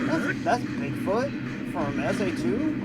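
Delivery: high, slow, drawn-out surprise; surprised disbelief. Retold or imitated. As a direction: act stunned at the news. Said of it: "I was like".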